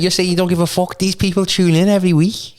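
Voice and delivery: incredulous. Real, not acted. Incredulous at partner's refusal.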